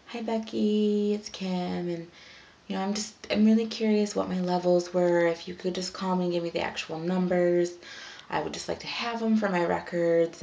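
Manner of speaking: a polite patient leaving a sweet message, sweetly; super nice. Retold or imitated. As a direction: sound overly pleasant on a message. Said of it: "Super nice".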